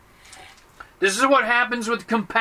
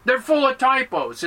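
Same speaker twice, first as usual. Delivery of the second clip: higher, insistent mock complaint; acted griping, pitched up; exasperated complainer; 4 semitones higher than usual. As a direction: argue the point in mild exasperation. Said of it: "And you go".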